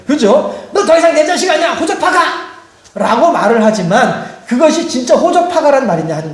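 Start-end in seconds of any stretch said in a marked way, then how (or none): 0.7-2.6 high-pitched mock shout of an angry parent; hammed-up parental fury; fed-up parent disowning. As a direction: act out disowning your troublesome child. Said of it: "자식들이 속을 썩일 때에".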